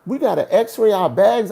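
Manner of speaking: tense wait-a-minute protest; nervous. Retold or imitated. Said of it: "I'm getting nervous now".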